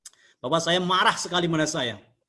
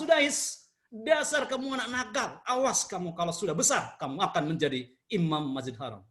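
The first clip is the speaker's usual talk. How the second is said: positive scolding. Retold or imitated. Mother lovingly scolds little Sudais, gentle positive anger. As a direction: scold him but with love, easing down at the end. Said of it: "ibunya marah yang positif".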